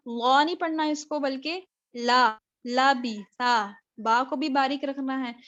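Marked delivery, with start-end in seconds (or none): 1.2-3.7 لبیثا slow, with a thin light لام; slow careful لبیثا, thin لام; thin lam. Shown as a demonstration. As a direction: draw out لبیثا with a thin لام, not full. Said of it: "لام کو پر نہیں کرنا".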